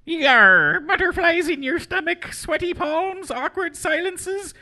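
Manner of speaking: high squeaky pirate mouse voice; sailor mouse. Pretend. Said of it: "That's my best sailor mouse".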